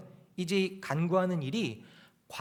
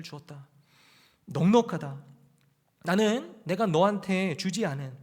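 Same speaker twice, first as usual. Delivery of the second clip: voicing God; 3 semitones higher, 4 dB louder than usual. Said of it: "그러니까 이런 거죠".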